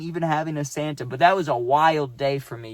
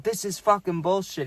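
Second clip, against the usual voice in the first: higher-pitched, retold angry swearing; imitated cussing out; 4 semitones higher than usual. Santa cusses out the manager, mildly acted anger. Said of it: "Santa starts cussing out the manager".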